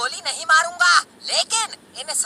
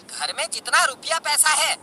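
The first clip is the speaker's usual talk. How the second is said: ordinary talk, nothing marked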